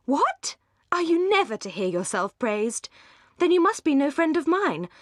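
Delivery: high, indignant burst; fervent exclaim. A narrator's reading. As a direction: scold him warmly for modesty. Marianne defends Edward fervently.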